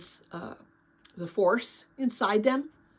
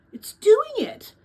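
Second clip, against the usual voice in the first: high, slow, louder gasp of wonder; amazed excitement; 10 dB louder, slower than usual. Acted. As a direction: marvel as the sprout breaks through. Lena sees bean sprout.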